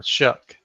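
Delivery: "Shuck" rhyming with "duck"; correct surname pronunciation. Shown as a demonstration. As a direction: say "Shuck" with a short uh and a hard k. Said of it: "How, how do you say it?".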